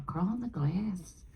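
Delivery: put-on slow, lightly done Scottish accent. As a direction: imitate the director in a Scottish accent. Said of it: "That's my Scottish accent".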